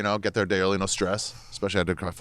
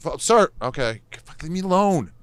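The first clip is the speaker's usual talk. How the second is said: squeaky exasperated mock voice; 8 semitones higher than usual. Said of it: "It's like".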